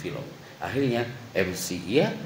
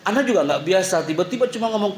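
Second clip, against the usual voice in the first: usual speaking voice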